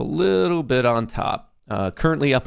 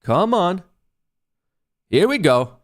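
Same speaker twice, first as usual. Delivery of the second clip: excited urging; 7 semitones higher, 3 dB louder than usual. Real, not acted. Waiting for target fill.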